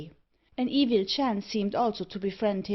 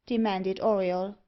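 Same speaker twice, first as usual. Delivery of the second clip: ordinary delivery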